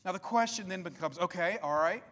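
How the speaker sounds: ordinary delivery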